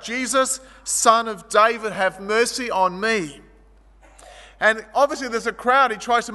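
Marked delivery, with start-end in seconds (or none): 0.0-3.4 calling out. Acted. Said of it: "he stands up and he calls out".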